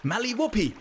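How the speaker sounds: high, loud furious call; angry giant shout. Acted. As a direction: bellow her name in fury. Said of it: "rief der Riese".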